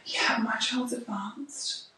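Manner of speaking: slow, hushed mock bragging; slow mock-smug murmur; boastful parent mimicry. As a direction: imitate a parent boasting, drawn out and half-whispered.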